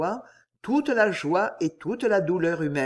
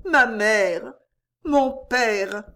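put-on a higher, rapt girl's voice; ecstatic murmur; 4 semitones higher, 4 dB louder, much slower than usual. A narrator's reading. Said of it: "murmurait Jeanne". (Jeanne murmure, extasiée, à ses parents retrouvés)

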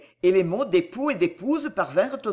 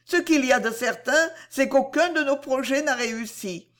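higher, strained lady; Cécile, near tears; 6 semitones higher than usual. Acted. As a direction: keep the tears just in check. Cécile continues tearful.

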